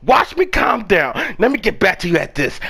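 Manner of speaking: calming down. Real, not acted. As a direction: rein yourself in after yelling. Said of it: "I'ma calm down for right now".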